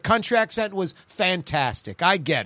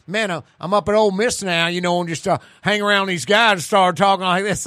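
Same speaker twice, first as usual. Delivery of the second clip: imitated Southern country-boy accent. Friend excusing his new Ole Miss twang, imitated country accent. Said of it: "He has a country accent".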